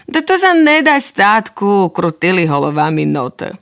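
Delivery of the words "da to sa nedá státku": put-on higher childish disbelief; high doubting notes. Little notes doubting their father. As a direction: protest like small kids.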